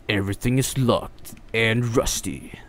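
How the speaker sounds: hushed whisper in the dark. Real, not acted. Streamer whispering while exploring the dark mansion. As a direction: whisper it so nothing hears you.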